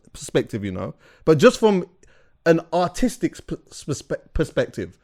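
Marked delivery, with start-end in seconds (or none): none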